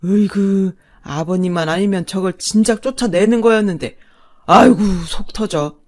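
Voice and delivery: loud, blustering rage; father-in-law's angry outburst. Acted. Father berating his son and wife, bursting with anger. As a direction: roar at your son and wife. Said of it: "아버님이 버럭 소리쳤죠".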